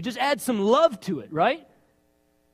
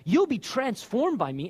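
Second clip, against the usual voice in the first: a lightly voiced gentle God; a hint of a divine voice, slowed; God speaking; 2 semitones higher than usual. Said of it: "And God says".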